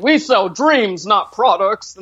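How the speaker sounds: slow, drawn-out ad-man pitch, lightly put on; mock executive talk. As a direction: sell it like a smug sixties ad executive. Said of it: "very loud and very strong".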